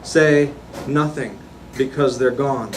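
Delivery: incantatory list-like poem recital; poetry reading. Acted. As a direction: declaim each phrase evenly, firmly projected. Reads own poem aloud.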